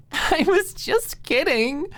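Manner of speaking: slow, high giggly tease; playful giggle, lightly voiced; giggling. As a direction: giggle the words out as a joke. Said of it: "she giggled".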